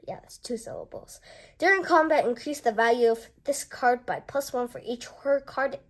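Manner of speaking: ordinary talk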